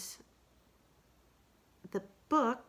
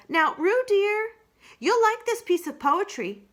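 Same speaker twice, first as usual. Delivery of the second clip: coaxing Roo; 14 semitones higher, 9 dB louder than usual. Acted. Rabbit coaxes Roo to listen, higher. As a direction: sweet-talk the little one.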